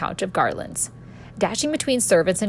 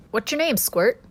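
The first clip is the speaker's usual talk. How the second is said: put-on Avenian accent; 5 semitones higher than usual. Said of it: "I quipped in my Avenian accent".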